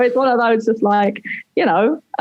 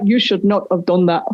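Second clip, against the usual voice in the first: low-pitched retold scolding; self-reproach; 5 semitones lower than usual. Speaker regretting the accent bit, low self-reproach. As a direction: scold yourself in a lowered voice.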